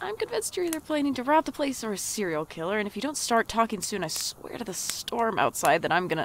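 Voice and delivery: snapping. Acted. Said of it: "Until I finally snapped".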